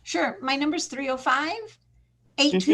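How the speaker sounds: slurred by new braces; talking around braces. Real, not acted. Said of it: "sorry, I have braces".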